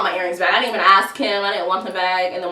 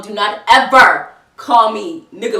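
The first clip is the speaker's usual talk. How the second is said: louder, slow, every word spelled out; stern warning; 6 dB louder than usual. Retold or imitated. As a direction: lay down the law, loud and slow. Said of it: "You gonna be fucked up".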